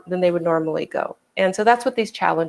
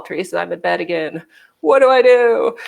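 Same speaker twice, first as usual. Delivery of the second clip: retold plea; 4 dB louder than usual. Retold phone plea for help.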